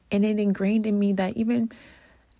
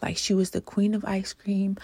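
emotional. Real, not acted. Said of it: "I don't know why I'm getting emotional right now".

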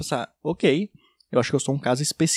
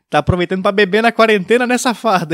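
loud jovial ribbing; teasing accusation; 3 semitones higher, 5 dB louder than usual. Retold or imitated. Acquaintance assumes he is drunk, loud teasing. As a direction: imitate a pal catching someone out.

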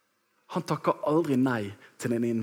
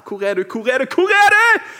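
repeated call climbing from raised voice to high shout; building panic; 10 semitones higher, 10 dB louder than usual. Retold or imitated. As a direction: call out louder and higher each time, losing your cool. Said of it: "så holder du roen litt grann".

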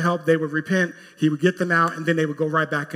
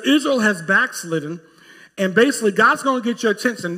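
louder, higher prophetic warning; prophet confronting the king; 5 semitones higher, 4 dB louder than usual. Acted.

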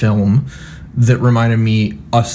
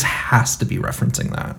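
whisper; 6 dB quieter than usual. Retold or imitated. Inner thought quoted, whispered.

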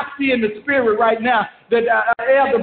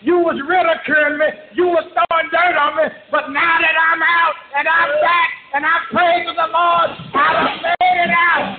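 raised, exultant taunt; triumphant shout; 3 semitones higher than usual. Pretend. Preacher shouting triumph at those who mocked him. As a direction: shout it back at the doubters, gloating. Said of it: "I'm gonna be shouting".

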